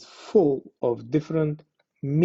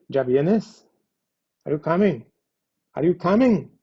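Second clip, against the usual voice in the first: impatient; 3 semitones higher, 5 dB louder than usual. Shown as a demonstration. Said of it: "It could denote impatience here".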